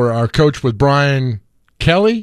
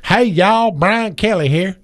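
Brian Kelly impression; 5 semitones higher, slower than usual. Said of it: "How's Brian talk".

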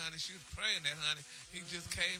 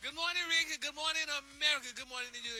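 higher, louder greeting close to the mic; 11 semitones higher, 8 dB louder than usual. Real, not acted. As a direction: greet the host again, louder and brighter. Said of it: "can you hear me now?".

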